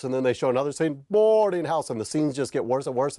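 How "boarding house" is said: higher, louder trailer-voice title; trailer announcer. Retold or imitated. Trailer voice hitting the title again, louder and higher. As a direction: punch the title like a cheesy trailer. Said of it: "keep repeating the name of the movie".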